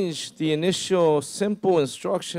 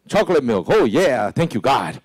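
louder, delighted chocolate milk; gleeful; 5 dB louder than usual. Retold or imitated. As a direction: celebrate the swap like a kid. Believer happily twists God's order.

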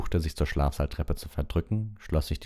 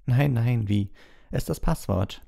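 soothing; 7 semitones higher than usual. Acted. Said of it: "beschwichtigte sie die fette Dame".

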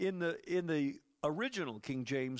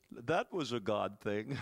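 laughing; 7 semitones lower than usual. Shown as a demonstration. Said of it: "I like to say it like this".

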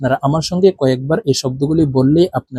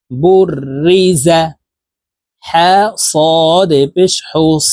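spelling drill; slower than usual. Shown as a demonstration. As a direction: spell it out clearly for students to repeat. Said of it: "আমি বানান করে বলে দিচ্ছি". (ধীরে ধীরে বানান করে বলা)

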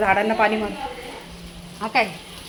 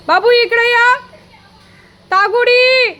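calling out; 10 semitones higher, 4 dB louder, slower than usual. Real, not acted. Calling the dogs loudly.

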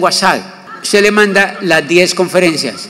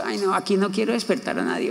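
softer, fading to a whisper; hushed aside; 3 semitones higher, 6 dB quieter than usual. Retold or imitated. To himself about not waking neighbours, a fading whisper. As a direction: drop into a private whisper.

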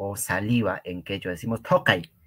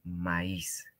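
slow drill; 4 semitones lower, 4 dB quieter, much slower than usual. Shown as a demonstration. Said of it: "Huaycay Panay, hermanos y hermanas".

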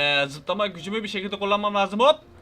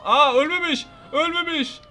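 surprised cry; 8 semitones higher, 6 dB louder than usual. Real, not acted. Crow survives the bomb.

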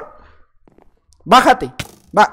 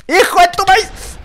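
mock curse; 9 semitones higher, slower than usual. Real, not acted. Mock curse at another player.

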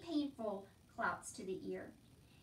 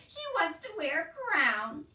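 high, loud, drawn-out derision; laughing mockery; 6 semitones higher, 12 dB louder than usual. A narrator's reading. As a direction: jeer at the wish, slowly and loudly. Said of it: "He laughed harder".

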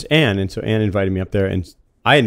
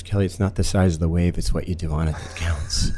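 lower, intimate murmur right into the ear; sexy in the ear; 5 semitones lower, 4 dB quieter than usual. Retold or imitated. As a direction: lean in and purr it close, lightly imitated. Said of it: "Like, really sexy in my ear".

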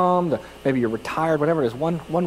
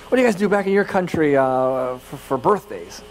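pitched-up, faster tipsy lady; higher drunk lady voice. Retold or imitated. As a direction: raise the voice to mimic a tipsy woman. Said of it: "I should do a higher voice".

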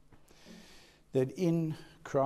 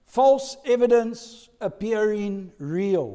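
each word slow and weighted, FALSE hit hardest; slow acronym drill; spelled-out acronym; 4 semitones higher, 6 dB louder, slower than usual. Shown as a demonstration. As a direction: lay out "False evidence appearing real" slowly, word by word. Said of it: "Fear, F E A R".

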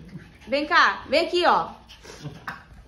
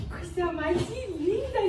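slow, soft adoring coo; 5 semitones higher, 7 dB quieter, much slower than usual. Real, not acted. Owner cooing softly at the new puppy. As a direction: melt over the puppy.

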